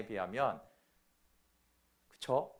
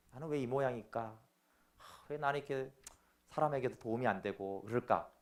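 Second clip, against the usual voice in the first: dejected sinner; 4 semitones lower, 8 dB quieter than usual. Acted. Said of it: "마음이 어둡고".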